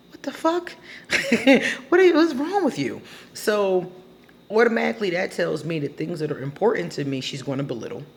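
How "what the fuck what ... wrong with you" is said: high, laughing incredulity; exasperated disbelief. Real, not acted. Asking the woman what's wrong with her, in high laughing disbelief. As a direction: throw up your hands, laughing.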